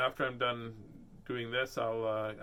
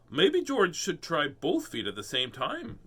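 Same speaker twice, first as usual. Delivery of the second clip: Mama Pig; 2 semitones higher, slower than usual. Acted. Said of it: "says Mama Pig".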